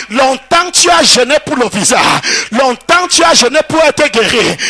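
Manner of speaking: steady full-voiced sermon delivery; preaching. Preacher to the congregation at the conference, preaching. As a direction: preach it out to the hall.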